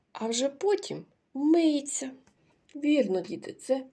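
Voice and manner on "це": це котик very slow and much louder, higher, КО stretched; drawn-out answer. Shown as a demonstration. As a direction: announce котик slowly and loudly for children. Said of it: "Скільки складів у цьому слові?".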